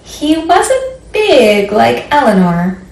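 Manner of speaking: slow storybook reading with long pauses; reading to children. Acted. Librarian reading a picture book to children. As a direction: read it gently to little listeners.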